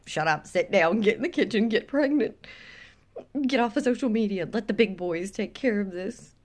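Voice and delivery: lightly imitating bossy men; mocking, a touch of domineering command; mock bossy order. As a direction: rattle off dismissive orders in imitation. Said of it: "They're like".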